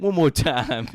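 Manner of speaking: mock-officious shout, drawing laughs; retold barked order. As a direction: play a guard calling for another round. Retold agent orders another spin.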